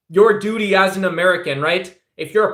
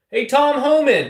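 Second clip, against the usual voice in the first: mock yell; 6 semitones higher than usual. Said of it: "yelling up to Tom Homan".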